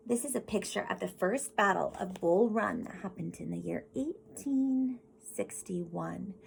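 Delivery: put-on storybook reading voice for kids; gentle classroom story read; reading to children. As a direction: read it like a picture book to the class. Reads picture book aloud.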